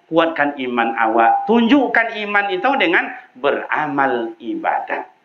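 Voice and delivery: ordinary talk, nothing marked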